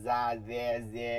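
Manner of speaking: যা, যে with a stray buzzing z, as what to avoid; wrong sound demo. Shown as a demonstration. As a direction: show the faulty, buzzy start of যা, যে. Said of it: "এরকম কিচ্ছু আসবে না".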